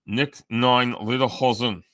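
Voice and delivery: slow mock German accent; terrible German accent. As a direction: try a clumsy German accent, drawn out. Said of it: "I have a terrible German accent".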